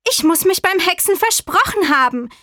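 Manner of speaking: high-pitched little witch voice. A narrator's reading. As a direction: explain it away as a little witch. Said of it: "sagte die kleine Hexe". (hohe Stimme der kleinen Hexe)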